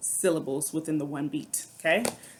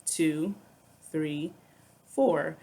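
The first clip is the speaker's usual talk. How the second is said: evenly spaced count with gaps; measured, one number per beat; much slower than usual. Shown as a demonstration. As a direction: count out four steady beats. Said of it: "Four beats will look like this".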